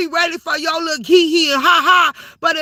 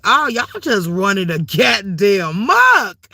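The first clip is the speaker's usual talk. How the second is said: low, slow mock shout, voice pitched down; exasperated mock shout; 6 semitones lower, slower than usual. Telling the chat how she reacted to the drama, a low drawn-out mock shout. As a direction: drag it out like you can't believe it. Retells her own reaction.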